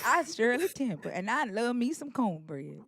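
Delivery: imitating a bad Southern accent, slowing on cornbread; mock someone's fake Southern accent. Host repeating her friend's attempt, mock Southern accent. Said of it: "What character are you doing?".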